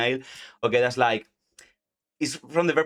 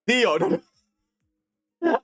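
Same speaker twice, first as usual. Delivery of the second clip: high, drawn-out groan of no; laughing protest; 12 semitones higher, 4 dB louder, much slower than usual. Real, not acted. Teacher cringing at her own line, laughing. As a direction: cringe at yourself. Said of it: "I said to myself I wouldn't say it".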